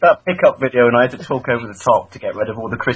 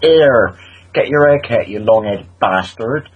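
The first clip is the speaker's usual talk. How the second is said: louder, slow jeering insult; rough Bristolian woman; 3 semitones lower, 4 dB louder, slower than usual. Retold or imitated. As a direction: bark it like a rough local. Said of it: "she went".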